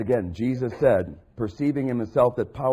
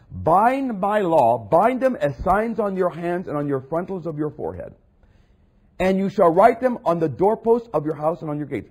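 proclaiming scripture; 3 semitones higher, 5 dB louder than usual. Acted. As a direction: proclaim it like God's decree. Preacher proclaiming scripture command.

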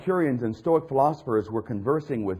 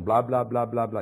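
mock phone chatter; 3 semitones lower than usual. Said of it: "your husband gets on the phone".

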